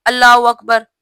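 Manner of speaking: अल्लाहू rushed to "अल्लाऊ"; wrong pronunciation. Shown as a demonstration. Teacher mimics the hurried takbir as a wrong example. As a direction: clip अल्लाहू, the h swallowed. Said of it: "ये भी गलत है".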